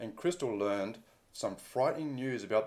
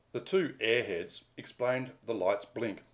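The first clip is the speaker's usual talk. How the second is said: scornful. Acted. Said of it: "can you just say that word again".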